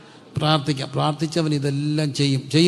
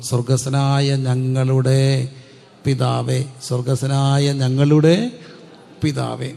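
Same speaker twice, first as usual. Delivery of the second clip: slow prayer recital; 3 dB louder, much slower than usual. Shown as a demonstration.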